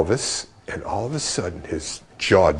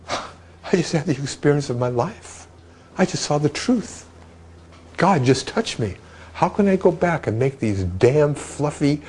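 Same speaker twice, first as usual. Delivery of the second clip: excited; 6 semitones higher than usual. Retold or imitated. A singer describing his vision, in tears.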